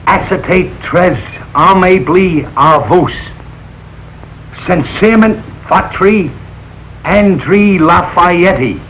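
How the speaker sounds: "Sincèrement, votre André Lafayette" read slowly with Lafayette said as "laf-eye-etty"; butchered French. Acted. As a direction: stumble slowly through the French sign-off. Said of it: "I know why you flunked French".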